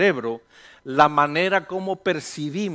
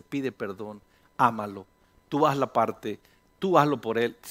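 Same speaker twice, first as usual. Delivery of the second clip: low, understated counsel from God; God's voice; 5 semitones lower than usual. Acted. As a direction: advise in a low voice, as God would. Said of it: "Dios habla así".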